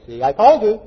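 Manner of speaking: a quick rub-it-in jab; mock I-told-you-so. Wife to husband after the loss, mildly gloating.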